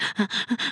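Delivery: soft unvoiced gasping hiccup; a quiet gulping gasp, as if unable to breathe; imitated breathless sob. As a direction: mimic a child who can't catch their breath. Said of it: "that thing where you're like".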